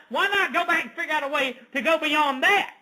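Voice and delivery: ridiculing what those people think; mocking their thinking. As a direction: play the sly Facebook users, half laughing. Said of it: "this is what these people thought in their mind".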